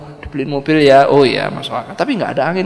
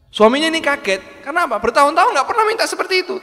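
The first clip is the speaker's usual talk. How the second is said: high, loud and fast; astonished telling; 13 semitones higher, 4 dB louder, faster than usual. Real, not acted. Preacher conveying the husband's shock at the request, high and fast.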